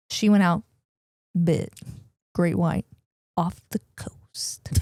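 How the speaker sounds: slow whisper, trailing into breath; hushed dramatic reveal. Real, not acted. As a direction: let it drop to a slow, ominous whisper. Hushed dramatic telling of shark bite.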